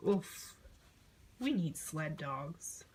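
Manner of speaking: slow, soft, low and deflated; tired child's sigh. Acted. Child after the sled sinks, slow and deflated. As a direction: say it slowly, worn out.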